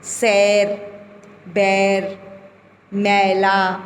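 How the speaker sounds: सैर, बैर, मैला with an open ऐ; teacher voicing the ऐ words; clear ऐ vowel. Shown as a demonstration. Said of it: "ऐ की मात्राएं हैं".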